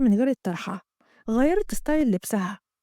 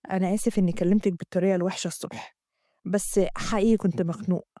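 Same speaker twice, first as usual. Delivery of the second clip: Amgad; 5 semitones lower than usual. Acted. Amgad voiced in the story.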